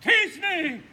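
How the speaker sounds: high, loud squeaky lady voice; tiny monster. Acted. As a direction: squeal it like a hammy heroine. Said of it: "in a monstrous little voice".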